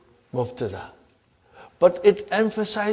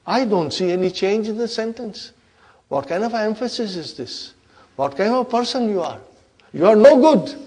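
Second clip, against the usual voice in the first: scolding; 4 semitones higher than usual. Acted. Inna tells lam off for changing nothing, scolding.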